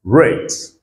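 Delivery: rate said as "ret", long A; model word. Shown as a demonstration. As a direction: give rate the English long A sound. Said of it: "we have rate".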